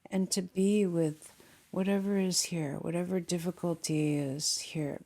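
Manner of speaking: calm meditation guide with long pauses; unhurried guiding voice, settling listeners into the body; guided meditation. Real, not acted. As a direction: lead them gently inward, leaving long silences.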